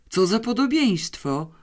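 narrated shock at a likeness; shaken amazement. A narrator's reading. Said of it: "powiedział wstrząśnięty". (wstrząśnięte zdumienie)

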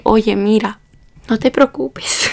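imitated consoling. Taxi driver consoling the student at her house, slow and soothing.

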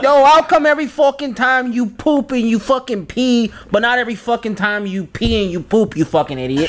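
hammed-up Italian wise guy accent; Italian Jamook accent. Shown as a demonstration. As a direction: lay on a mock Italian mobster accent. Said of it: "fucking Italian Jamook accent".

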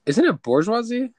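bourgeoisie with an R, "borzh-wah-zee", loud and high; mispronounced bourgeoisie. Real, not acted. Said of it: "It is one hundred percent not".

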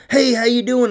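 mimicked friendly greeting. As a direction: chirp it, imitating her. Imitating the woman's greeting.

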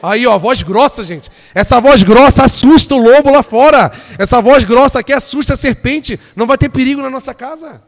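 full-force, high, booming proclamation; triumphant preaching shout. Real, not acted. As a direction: roar it out to the whole church. Exults in the men's strong response.

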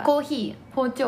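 Hokkaido intonation on both words; Hokkaido accent. Shown as a demonstration. Reviewing dialect examples together, Hokkaido accent. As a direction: recite コーヒー and 包丁 with Hokkaido intonation. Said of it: "そう、北海道弁ってね".

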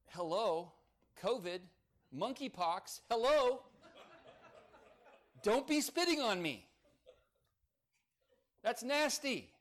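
hammed-up shout of disgust; mock outraged shout. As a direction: playfully yell at someone who spat on you. Mock reaction to being spat on.

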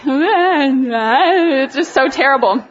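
laughing. Real, not acted. Laughing at her own crying on stage.

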